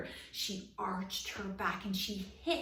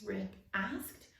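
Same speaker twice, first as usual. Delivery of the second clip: usual speaking voice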